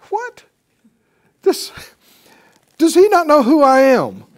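high, loud indignant outburst; enraged Naaman. Retold or imitated. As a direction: play the insulted, furious general. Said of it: "he was enraged".

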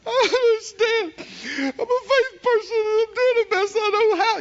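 high-pitched mock sob; mock crying whine. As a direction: whimper like a defeated believer. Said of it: "and they'll cry".

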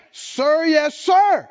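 loud military call and response; drill sergeant. Acted. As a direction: shout it back like boot camp. Repeated louder military reply.

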